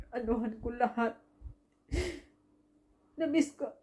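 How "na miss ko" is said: tearful, voice breaking, high; choked up, pushing words through tears; crying. Real, not acted. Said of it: "naiyak ako".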